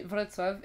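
"Wrocław" as Vrotswav, with ts and w; prononciation polonaise. Shown as a demonstration. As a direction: say "Wrocław" the Polish way. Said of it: "donc c'est Wrocław". (« Wrocław » prononcé Vrotswav, à la polonaise)

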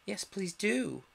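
a touch of a polite plea; lightly voiced character. One creature begging the mouse, lightly voiced.

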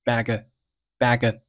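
"bag" as a linked "baga" with light g; gentle unaspirated g in "bag"; soft g sound. Shown as a demonstration. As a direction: soften the k of "back a" to g, as in "bag". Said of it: "很轻很软的g的音".

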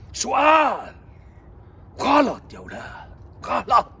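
shout. Acted. Scolding over the wrong word.

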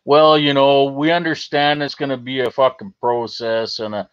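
lightly voiced waffling politician; mock prime minister. Streamer mocking the prime minister's answer, lightly put-on. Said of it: "what does the fucking prime minister say".

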